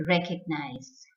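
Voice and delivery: recognize with an unstressed 'uh' in the middle; correct pronunciation. Shown as a demonstration. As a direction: say recognize as REK-uhg-nize. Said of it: "the correct pronunciation is recognize".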